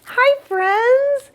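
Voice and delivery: high, bright hello to the puppets; excited greeting. Real, not acted. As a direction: gasp and greet the friends with delight.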